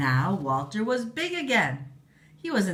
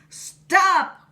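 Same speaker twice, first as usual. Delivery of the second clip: much higher, loud shout; cry out; 14 semitones higher, 10 dB louder than usual. Acted. Queen ordering Walter to stop, loud shout. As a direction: shout to halt him. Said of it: "cried Queen Dentina".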